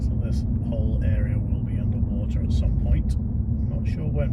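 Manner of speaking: talking while bouncing down a rough road; on a bumpy road. Real, not acted. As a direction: voice jolted by a bumpy drive. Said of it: "sorry about the bumpy road".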